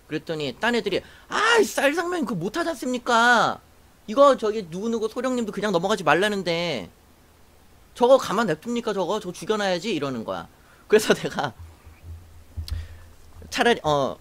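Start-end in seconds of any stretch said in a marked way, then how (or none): 1.3-9.9 mock-indignant complaint to a superior; lightly acted indignant soldiers; indignant protest. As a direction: imitate peers protesting, pitched up at the start.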